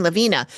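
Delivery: "Lavina" quickly said la-VEE-na. Shown as a demonstration. Host explaining her mix-up, "Lavina" as la-VEE-na. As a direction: give "Lavina" a long EE in the middle. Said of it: "I kept thinking Lavina".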